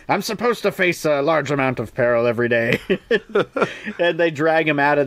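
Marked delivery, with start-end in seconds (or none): 0.1-3.0 laughing through the quote; can't hold the laugh while quoting. Real, not acted. Retelling Galahad's protest, laughing through it.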